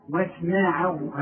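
واسمعوا slowly, light vowels and a clear ayn; slow, light "wasma'u" for واسمعوا; clear thin ayn. Shown as a demonstration. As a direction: draw out واسمعوا to show the ayn. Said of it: "طب والعين".

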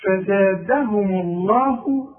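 slow measured Quran recitation. Shown as a demonstration. Teacher reciting the verse slowly for pupils. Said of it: "recites verse slowly".

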